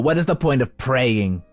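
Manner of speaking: rising to a high, drawn-out wail; despairing yell. Acted. Desperate elf yelling in the refugee grotto, despairing. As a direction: cry out in hopeless anguish. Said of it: "one person yell".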